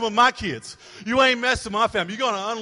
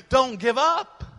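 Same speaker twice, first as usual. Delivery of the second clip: exhorting shout; 5 semitones higher, 3 dB louder, slower than usual. Real, not acted. Preacher exhorting the congregation.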